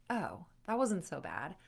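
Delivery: understated realization, lifting at the end; mild relieved surprise. Acted. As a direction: discover it was fine, tentatively. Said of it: "it's over and you're like".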